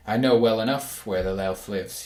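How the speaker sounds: soft voice. Acted. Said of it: "he said in a soft voice".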